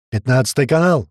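loud parting call; hurried shout. Acted. Tuman calls the radio channel, shouting. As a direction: shout it before he's gone. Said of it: "успел крикнуть ему Туман".

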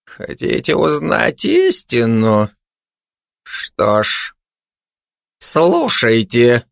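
halting, agitated orator; trembling with agitation. Acted. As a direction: pause heavily between phrases, voice trembling. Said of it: "дрожащим от волнения голосом". (взволнованно, с дрожью в голосе)

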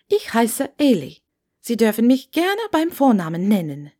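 a hint of an eager Scottish landlady; chatty landlady voice. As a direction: talk on and on at the new guest. Chatty landlady greets Hermine.

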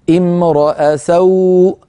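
امرأ سوء slowly, r open as imraa; slow demo of fatha on r. Shown as a demonstration. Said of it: "الهمزة مفتوحة فانفتحت الراء".

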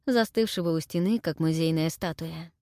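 ordinary delivery

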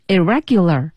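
careful syllables in "irregular"; alternative readings. Shown as a demonstration. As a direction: sound out "irregular" as a question of pronunciation. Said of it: "该读irregular还是读irregular".

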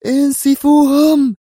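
high, loud and slow attack command; shouted order. A narrator's reading. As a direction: bellow the order to fire. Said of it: "وصرخ بولارد". (صرخة أمر عالية وبطيئة)

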